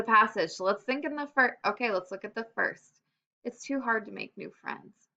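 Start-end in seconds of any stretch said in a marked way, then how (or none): 3.4-5.1 softly voiced, timid worry; quiet, mildly scared child's thought; shy. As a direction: say it small, like a nervous newcomer. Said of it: "She's feeling really shy".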